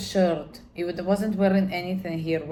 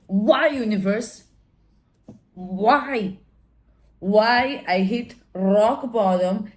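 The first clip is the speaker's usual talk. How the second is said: anguished plea; 3 semitones higher, 5 dB louder, slower than usual. Retold or imitated. Crying out to the universe.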